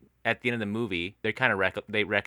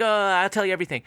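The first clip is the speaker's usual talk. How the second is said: high, louder whimpering mock of a breaking man; mock sobbing confession; 10 semitones higher, 4 dB louder, faster than usual. Imitating the husband's tearful confession to his wife, high mock sob. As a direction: play the husband caving in with hammed-up tears. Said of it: "he starts sobbing and he's like".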